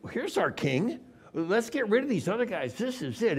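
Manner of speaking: eager crowd voice. Retold or imitated. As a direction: lift it like a hopeful crowd. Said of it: "he says".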